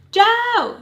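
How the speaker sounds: loud, high, drawn-out call; imitated scream. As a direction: holler the name as if across a crowd. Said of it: "screams for Joe".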